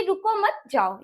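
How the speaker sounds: "रुको मत जाओ" slowly, with a slight comma pause; अल्प विराम का ठहराव. Shown as a demonstration. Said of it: "हल्का सा ठहराव चाहिए". ("रुको मत जाओ" में हल्का ठहराव)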